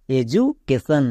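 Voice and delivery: এজুকেশন with a জু sound for the d; demonstrated pronunciation. Shown as a demonstration. Teacher sounds out the word for students, demonstrated pronunciation. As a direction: model এজুকেশন, saying জু in the middle. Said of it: "এর উচ্চারণটা কি দাঁড়াবে".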